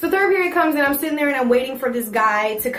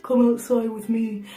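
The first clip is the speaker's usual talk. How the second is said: lightly voiced vice principal; a hint of the vice principal's way of talking; imitated vice principal. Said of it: "Literally, that's how he talked".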